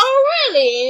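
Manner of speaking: high mock-surprised sister voice. Sister voiced in retold gossip.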